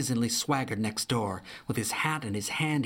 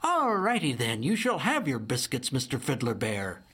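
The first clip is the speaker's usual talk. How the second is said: 1 lightly voiced cheerful Opal. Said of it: "she laughed".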